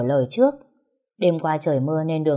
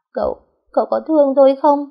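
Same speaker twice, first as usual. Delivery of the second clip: higher, louder, fast crying question; tearful plea; 9 semitones higher, 8 dB louder, faster than usual. Acted. Liên asking her husband through tears if he loves her, crying. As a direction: beg him through tears.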